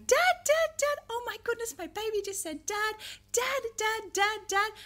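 high, delighted cheering of dad; excited parent. Retold or imitated. Parent thrilled their baby just said dad, high excited gushing. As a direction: gush with joy at baby's first word. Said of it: "supportive sounds from parents going".

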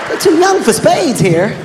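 squeaky scandalized dad, high and slow; high mock outrage. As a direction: play it baffled and appalled. Dad confronting party kids.

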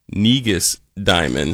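slow, careful enunciation; drawn out to avoid a slip. Real, not acted. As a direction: say the name slowly and carefully. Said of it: "I had to slow it down".

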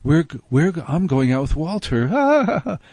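put-on a touch of teenage-style defiance; rebellious daughter. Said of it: "would be rebellious".

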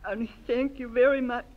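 choked up thanking everyone at her welcome home; tearful speech. Acted. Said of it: "I don't know why I'm crying".

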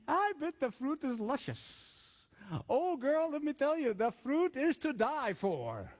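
confiding tempter talking up a treat; tempting Satan. Acted. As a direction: stretch out the relish to tempt her. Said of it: "What is Satan doing?".

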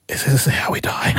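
hushed, voiceless whisper; retold whisper. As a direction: whisper it like a secret aside to your partner. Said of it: "whispers to me".

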